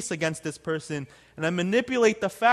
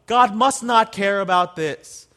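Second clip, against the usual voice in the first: mock excuse; 2 semitones higher, 8 dB louder than usual. Mocking a self-excusing thought.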